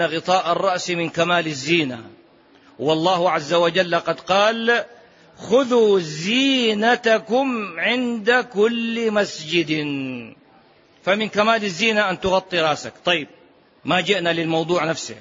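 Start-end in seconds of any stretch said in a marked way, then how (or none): 5.4-9.7 slow recited verse; Quran recitation. Acted. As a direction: intone the verse slowly.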